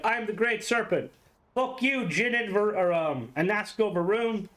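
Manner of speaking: high, lightly hammed-up serpent god; a hint of pompous god voice; mock Great Serpent. Plays the Great Serpent ranting.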